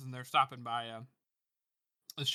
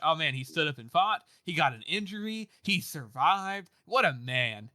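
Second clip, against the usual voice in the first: proud admiration; 3 dB louder than usual. Retold or imitated. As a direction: voice his pride in the fighter. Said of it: "he's proud of Giselle".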